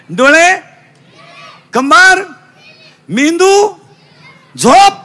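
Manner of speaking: high, loud rising list; rousing drill. Real, not acted. (एकेक शब्द उंच, चढ्या सुरात)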